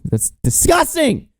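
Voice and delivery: high, slow exaggerated revulsion; mock disgust. Real, not acted. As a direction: ham up the disgust. Mock disgust after "not joking.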